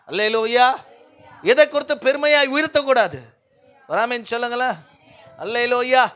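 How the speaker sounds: forceful preaching. Real, not acted. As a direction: drive it home to the congregation.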